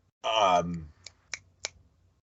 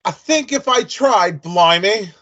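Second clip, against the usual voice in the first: put-on English accent; 6 semitones higher, slower than usual. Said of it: "Nah, I lost it".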